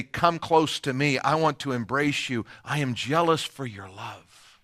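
soft, intimate call, hushed toward the end; tender invitation. Acted. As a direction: speak it like an embrace. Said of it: "put his arms around you".

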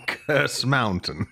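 laughing slow echo. Real, not acted. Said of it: "repeating laughing".

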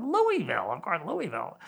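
teasing mock recognition of "Louisville"; mock realization. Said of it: "I said".

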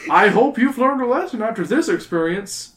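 high, loud teacher voice; stern teacher. Acted. The teacher lectures the kids about their missed trip, loud and high. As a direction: lecture them like a cross schoolteacher.

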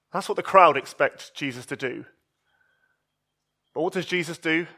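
ordinary talk

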